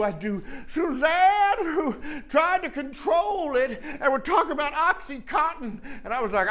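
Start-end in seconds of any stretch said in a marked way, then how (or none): 0.7-5.8 lightly voiced Suzanne. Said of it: "I would do the people I saw".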